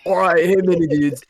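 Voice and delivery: aggressive SoCal surfer dude; socal accent. Acted. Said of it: "be the aggressively Southern Californian".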